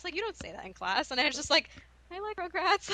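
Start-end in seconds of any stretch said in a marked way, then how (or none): 2.1-2.9 high-pitched mock childish declaration; like a five-year-old. Student mocking her blurt in college class, like a five-year-old. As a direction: imitate your own kiddish blurt, pitched up. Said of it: "I said it like I was a five-year-old".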